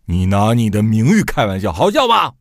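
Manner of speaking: booming, rising to a shout on 好笑吧; a father's solemn rebuke swelling into a yell. Retold or imitated. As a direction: boom it out like a stern father. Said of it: "我父亲就隆中的声音".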